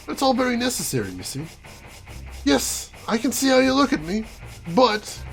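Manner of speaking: bored, smug villain. Acted. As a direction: play a tired villain explaining himself, mildly hammed-up. Voices game villain's monologue.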